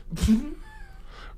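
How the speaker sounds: high, whooping laugh; real laughter bursting out; howling laugh. Real, not acted. Laughing at a friend calling the White House, high whoop.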